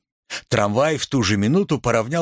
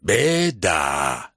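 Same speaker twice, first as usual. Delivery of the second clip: roar; 6 semitones lower than usual. A narrator's reading. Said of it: "проревел".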